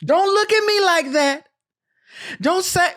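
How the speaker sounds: high-pitched, overdone captain delivery; Kerry Washington impression. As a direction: declaim it high and measured like an army captain. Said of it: "this is how captains speak".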